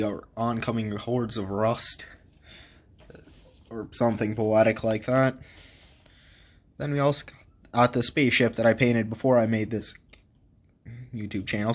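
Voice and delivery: holding back hiccups between words; talking through hiccups; suppressing hiccups. Real, not acted. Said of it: "Sorry, hiccups".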